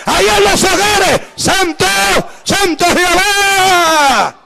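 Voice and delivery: calls out the holy name, drawing the last words out slowly; fervent cry. Real, not acted. Preacher to the congregation, calling on Jehová with a fervent cry. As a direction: cry out to God with full fervour. Preacher crying out against evil.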